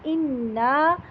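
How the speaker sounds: اِنَّا said plainly with a short nasal noon; ghunnah demo. Shown as a demonstration. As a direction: say اِنَّا normally with a brief nasal hold. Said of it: "نون تشدید ... غنہ". (اِنَّا سادہ انداز میں)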